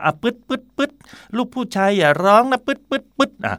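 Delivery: high, playful shushing with blowing sounds; hushing parent. Retold or imitated. Parent telling a little boy not to cry, playfully high. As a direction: mimic a parent blowing on a scrape.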